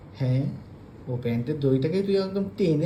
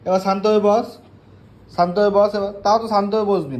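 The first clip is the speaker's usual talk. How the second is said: louder, firm call to settle down; firm coaxing; 5 dB louder than usual. Real, not acted. Owner firmly urging her pet to calm down, louder. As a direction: tell the restless pet to sit still.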